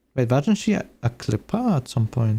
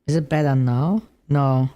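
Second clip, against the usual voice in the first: robotic filtered voice. Shown as a demonstration. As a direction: talk through a robot filter. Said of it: "I just sound like a freaking robot".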